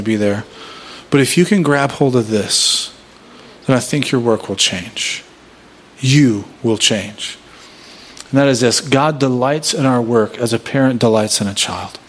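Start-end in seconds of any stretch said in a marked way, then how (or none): 6.0-7.4 slow emphasis. Real, not acted. Sermon climax line.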